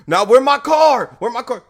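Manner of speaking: mock angry challenge; mad. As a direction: imitate an angry man still demanding. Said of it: "He's mad".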